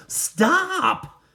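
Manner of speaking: high, loud cry of Stop; yell. Acted. Walter yelling at the bulldozer driver, loud high shout. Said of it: "he yelled".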